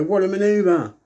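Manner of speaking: imitating Vince. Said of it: "you go".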